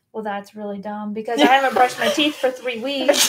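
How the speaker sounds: laughing at herself. Retold or imitated. Self-mocking thought while recalling mirror.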